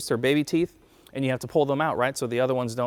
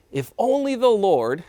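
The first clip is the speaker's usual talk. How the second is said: slow, higher, louder moan; moaning complaint; 5 semitones higher, 5 dB louder than usual. A narrator's reading. Israelites complain in the wilderness, slow moaning. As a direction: read it as a drawn-out complaint. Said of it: "they moaned".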